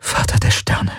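hushed, voiceless whisper. A narrator's reading. Kirai grasps the danger to the ship, whispering. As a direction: whisper it as a stunned oath. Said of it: "flüsterte sie".

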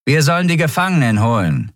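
lightly put-on Skria voice. A narrator's reading. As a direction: voice an alien guard's demand. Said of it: "eine Skria-Stimme fügte hinzu".

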